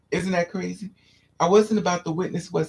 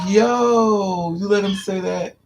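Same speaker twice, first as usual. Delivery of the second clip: raised, louder shocked "yo"; shocked friends; 3 semitones higher, 5 dB louder, much slower than usual. Retold or imitated. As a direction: call out in disbelief. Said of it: "They was like".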